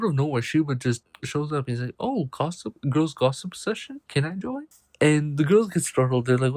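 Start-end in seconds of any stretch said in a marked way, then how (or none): 2.0-4.7 lightly acted nosy, higher-pitched interjection; playful butting-in. Man turns up at the girls' gossip session, mock-eager.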